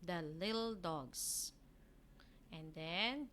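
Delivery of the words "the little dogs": slow, clear "The little dogs" with the weight on "little"; teacher model of "The little dogs"; model reading. Shown as a demonstration. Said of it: "I'll underline it".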